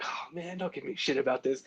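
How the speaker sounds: mock plea. Pleading with the teasing Jim Lee.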